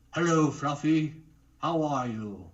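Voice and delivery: a touch of cartoon crocodile replying to Fluffy; Crocodile character voice. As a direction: greet Fluffy as his friend Crocodile in a gentle cartoon voice. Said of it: "this is my friend Crocodile".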